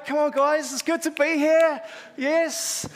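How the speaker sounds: high, loud rallying call; rousing hype. Real, not acted. Preacher telling guys it's good to be here, excited rallying. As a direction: pump up the room, pitched right up. Hyping up the congregation.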